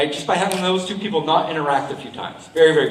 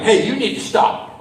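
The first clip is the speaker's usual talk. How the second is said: slow, direct demand to stop; firm, emphatic demo of a blunt order; blunt confrontation; 3 semitones higher than usual. Shown as a demonstration. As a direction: come right out with it, slowly. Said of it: "not coming right out and being like".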